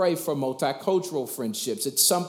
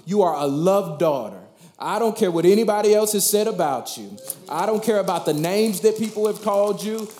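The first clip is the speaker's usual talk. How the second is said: fervent preaching; 4 semitones higher, 4 dB louder than usual. Real, not acted. Preacher exhorts congregation.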